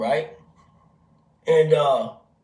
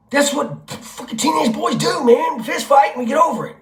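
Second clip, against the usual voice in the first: emphatic rant; 8 semitones higher than usual. Real, not acted. Rant peak.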